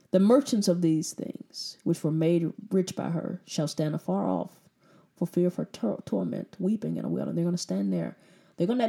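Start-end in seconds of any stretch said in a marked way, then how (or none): 0.1-7.3 solemn Bible reading; scripture reading. Acted. Reads scripture aloud.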